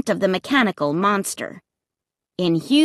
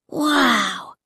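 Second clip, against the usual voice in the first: excited cry; 2 semitones higher than usual. Acted. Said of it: "I heard Luke cry".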